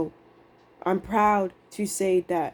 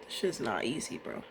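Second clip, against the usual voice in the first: exhausted; 4 semitones lower, 13 dB quieter than usual. Real, not acted. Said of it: "I'm exhausted".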